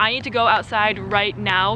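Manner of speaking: ordinary talk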